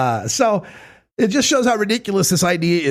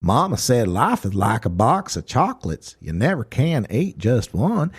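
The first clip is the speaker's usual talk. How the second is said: Forrest Gump impression; 4 semitones lower than usual. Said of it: "you take your Forrest Gump".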